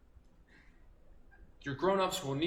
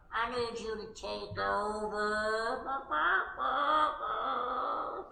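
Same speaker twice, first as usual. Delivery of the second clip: higher, slow, sing-song clucking; old rooster papa; 5 semitones higher, much slower than usual. Acted. Old rooster papa asking his son to crow, sing-song. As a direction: croak along like a tired old rooster. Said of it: "The papa said".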